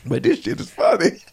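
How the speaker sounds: whispered, holding back laughter; giggling under the breath; stifled giggles. Real, not acted. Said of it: "I'm trying not to giggle through all this".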